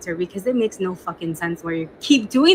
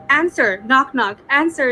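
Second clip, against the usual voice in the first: higher, punchy pressing demand; insistent demand; 4 semitones higher, 4 dB louder than usual. Retold or imitated. Girlfriend pushing boyfriend to answer her joke, insistent. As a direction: press for a reply, word by word.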